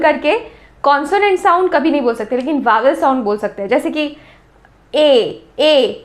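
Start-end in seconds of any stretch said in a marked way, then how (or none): 4.9-6.0 "ए, ए" held open, each separate; open vowel demo. Shown as a demonstration. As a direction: sound out "ए" with a fully open mouth. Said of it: "पूरा मुंह खुल जाता है". ("ए" पूरा मुंह खोलकर, अलग-अलग)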